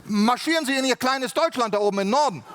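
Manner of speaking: lightly hammed-up Swiss official; bossy Swiss official. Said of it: "er sagte mir".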